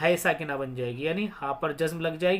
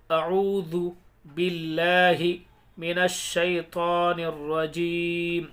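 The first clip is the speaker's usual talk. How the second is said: slow, measured syllable-by-syllable chant; elongated Arabic recitation for learners; Quran spelling recitation; much slower than usual. Shown as a demonstration. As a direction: spell out each syllable, then recite it joined, long vowels held. Hijja spelling and recitation demo.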